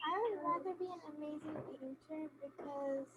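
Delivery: very soft, far from the mic; speaking too quietly; barely audible. Real, not acted. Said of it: "your voice is very low".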